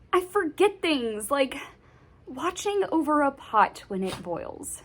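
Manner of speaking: high, loud, anguished self-defence; distressed pleading. Acted. Child left caring for baby brother, distressed pleading. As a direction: plead it out, pitch climbing as you go.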